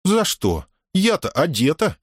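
high, cheeky retort; teasing girl. A narrator's reading. Дая дразняще отвечает Мусе. (высокий задорный девичий голос)

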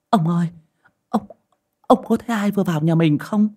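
high, alarmed call to a husband; urgent, panicky asking; hurried questioning. A narrator's reading. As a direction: stammer out the question in a fright. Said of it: "Bà vội hỏi".

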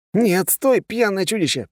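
high panicked shouting; panicked cries. A narrator's reading. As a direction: cry out in panic. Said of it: "послышались панические крики".

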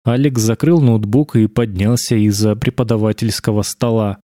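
plain reading voice

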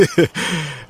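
put-on loose happy drunk laugh; drunken laugh. A narrator's reading. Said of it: "радостно заревел".

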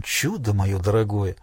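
softly whispered, fond; a hushed word of praise, quiet; tender whisper. Acted. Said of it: "прошептал он".

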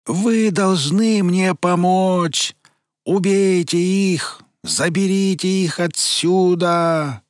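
high, loud, slow howling creature; howling gargoyle. Acted. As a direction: howl it out desperately. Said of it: "горгулья взвыла так громко".

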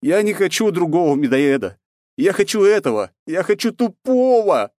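high, loud mock wail; hammed-up distress, stretching the last words; fake upset voice. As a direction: whine like a heartbroken child, putting it on. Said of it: "попытался изобразить расстроенный голос".

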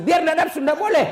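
high, loud playful scolding; mock firm refusal. Preacher replaying his refusal to a fan, loud and high. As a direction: throw it back loud and high, joking.

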